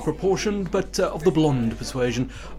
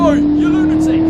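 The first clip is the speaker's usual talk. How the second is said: furious yell, much louder and higher; angry shout; 11 semitones higher, 10 dB louder than usual. Acted. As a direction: bellow at the passing car. Yelling at reckless driver.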